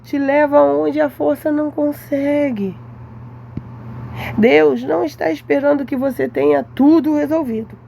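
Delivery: slow, solemn sermon cadence, each phrase weighed; slow preaching. Acted. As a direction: preach it slowly, letting every line land. Slips into sermon-like exhortation.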